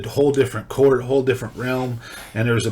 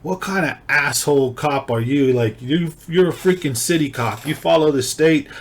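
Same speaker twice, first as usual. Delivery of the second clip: retold reaming; 3 semitones higher than usual. Judge reaming the cop, mock-angry. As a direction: lay into him like the judge did. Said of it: "the judge just reamed him".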